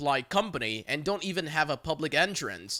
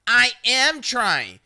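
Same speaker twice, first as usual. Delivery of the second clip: slow, louder, exasperated; 5 semitones higher, 7 dB louder, slower than usual. Retold or imitated. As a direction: drag it out with an eye roll. Caller exasperated, eye roll.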